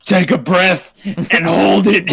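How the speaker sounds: robot lady voice. Retold or imitated. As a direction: play the machine's robot voice, slowly. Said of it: "weirdly forceful robot lady voice".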